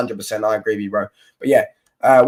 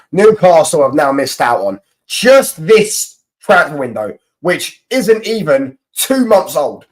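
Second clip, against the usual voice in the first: higher, louder, slow gloating taunt; mocking rant; 6 semitones higher, 5 dB louder, slower than usual. Real, not acted. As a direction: rub it in, listing every miss. Mocking rant at Newcastle fans.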